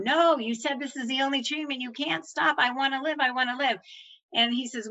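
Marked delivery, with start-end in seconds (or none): 0.0-3.8 begging. Retold or imitated. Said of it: "begging them".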